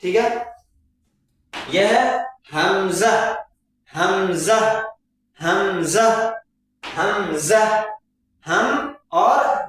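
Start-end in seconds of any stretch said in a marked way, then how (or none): 1.5-7.6 "हमजा" with a z sound, not j; correct hamza. Shown as a demonstration. Teacher to students: "हमजा" with z. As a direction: say "हमजा" ending on za. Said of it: "जा की आवाज में निकालना है".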